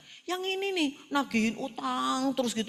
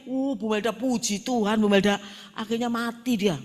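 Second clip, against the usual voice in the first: loud, excited retelling of the woman's news; gleeful loud report; 7 dB louder than usual. Retold or imitated. Church woman telling Bu Melda her husband died, loud and gleeful. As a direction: blurt it out with relish, much louder.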